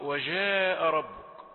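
"جاء" with a soft zh for jeem. Shown as a demonstration. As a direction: let the jeem in "جاء" hiss like French j. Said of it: "هذا خطأ". (نطق الجيم في "جاء" رخوة معطشة)

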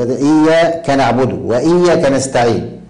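إياك broken as "iyyaa... kanaʕbudu"; spoken demo splitting the ك off إياك; iyya split from kaf. Shown as a demonstration. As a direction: break وإياك before its ka, gluing it to نستعين. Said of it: "هذا خطأ".

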